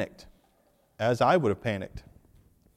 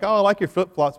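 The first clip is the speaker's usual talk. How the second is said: bright higher gushing voice; mock admirer; 7 semitones higher, 5 dB louder than usual. People admiring the flip-flops, mock gushing. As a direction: gush over the flip-flops. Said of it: "everyone else is like".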